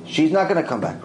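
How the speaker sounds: other judge's firm no in normal voice; insistent denial. Retold or imitated. Judge arguing against Rav Ovadia, firm refusal. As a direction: argue she stays dead. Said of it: "He's arguing with him".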